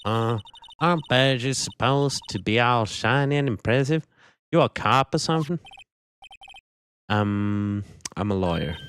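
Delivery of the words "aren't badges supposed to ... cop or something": put-on Southern accent. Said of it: "the southern accent and attitude".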